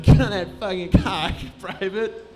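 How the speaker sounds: lightly voiced sergeant ordering a private; mock sergeant. Acted sergeant giving orders.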